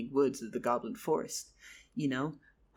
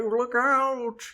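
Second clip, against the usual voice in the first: higher, louder warning yell; warning shout; 8 semitones higher, 10 dB louder than usual. Acted. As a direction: shout to warn him. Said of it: "Charles was like".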